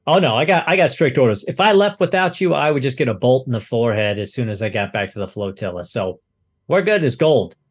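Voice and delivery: lightly voiced pilot under strict orders; a hint of a pilot reassuring his passengers; gun cutter pilot.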